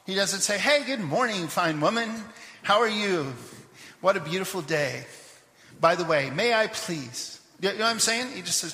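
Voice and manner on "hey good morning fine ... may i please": exaggeratedly polite greeting, stretched at the end; mock pleasantries. Preacher imagining over-polite small talk to a woman at the well, mock courteous.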